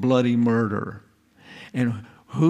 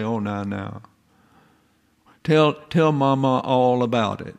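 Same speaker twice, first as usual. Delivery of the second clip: soothing mother. Acted. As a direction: lightly hush an upset child. Mother comforts screaming child.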